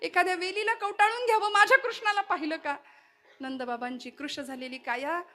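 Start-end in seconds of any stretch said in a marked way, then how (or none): 0.0-2.8 a lightly voiced, higher, anxious Yashoda; higher, searching plea for her lost son; a hint of a frantic mother asking after Krishna. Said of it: "वेड्या पिशव्यासारखी धावत फिरतीये".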